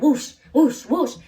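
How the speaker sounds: loud, punchy whooshes; imitated whoosh. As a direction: mimic a bouncing belly with whooshes. Imitating pregnant cousin's belly moving.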